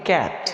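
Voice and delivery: "कैट" with an open short "ऐ" vowel. Shown as a demonstration. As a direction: say "कैट" like English cat. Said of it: "क्या पढ़ेंगे?".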